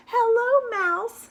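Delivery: very high, loud duck call; cheery duck greeting. Acted. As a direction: shout hello way up high.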